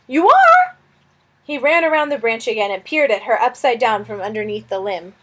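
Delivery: a flustered little lizard fretting over a guest; fussy lizard. Acted. Lizard Suz speaking.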